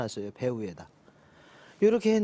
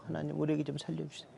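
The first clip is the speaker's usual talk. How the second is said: fast, rattled-off prayer like counting a hundred times; speedy rote praying; rapid repeated prayer; 7 dB quieter, faster than usual. Retold or imitated. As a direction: gabble the plea quickly, over and over. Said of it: "손가락을 쉬어가면서 했어요".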